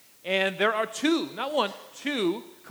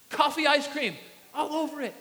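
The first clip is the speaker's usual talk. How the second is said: amused exclamation; 7 semitones higher than usual. Retold or imitated. Narrating the breath smell.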